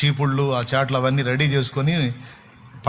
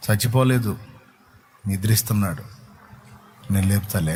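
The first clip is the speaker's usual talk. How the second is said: lower, gentle Jesus voice; 5 semitones lower than usual. Retold or imitated. Jesus says the child sleeps.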